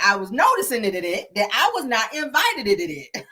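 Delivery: mock over-pronounced, repeating final D's; extra D's on the end. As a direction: stutter repeated D's after "noticing" and "invited". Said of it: "Put all them D's on the end".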